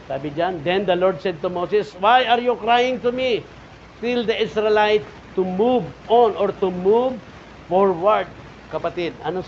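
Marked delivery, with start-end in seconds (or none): 0.7-8.3 slow, higher, louder reading; scripture reading. Acted. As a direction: read God's words to Moses. (pagbasa ng Kasulatan)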